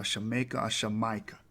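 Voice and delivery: "Shamaica" sha-MAY-ka, then "Shamaika" sha-MY-ka; both with a soft sh start; two sh forms of the name; correct pronunciation. Shown as a demonstration. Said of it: "That's how you're supposed to say it".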